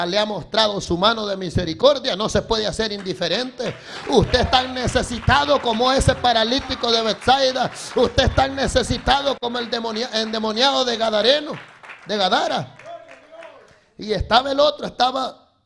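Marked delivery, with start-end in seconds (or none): 4.1-12.7 loud, driving sermon delivery; full-force preaching. Acted. Preacher praising God's mercy to the brethren, forceful preaching. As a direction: preach it out to the congregation.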